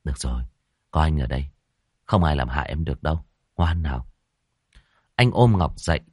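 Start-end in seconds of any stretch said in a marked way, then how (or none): 0.0-4.1 soothing. Acted. Hoàng soothes Ngọc again.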